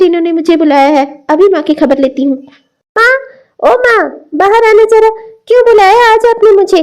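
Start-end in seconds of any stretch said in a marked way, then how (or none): 3.0-6.8 calling out. Acted. Daughter calls her mother out of the house, angrily. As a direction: shout for mother to come out.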